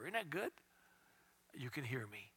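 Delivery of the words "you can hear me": soft, low whisper; quiet voice of God; God's whisper. Pretend. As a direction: murmur it as if standing right beside them. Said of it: "speak to him in a whisper".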